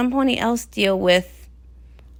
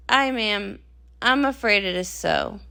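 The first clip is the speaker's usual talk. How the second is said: sheepish admission; 3 semitones lower, 6 dB quieter than usual. Acted. Guard admits failure to captain.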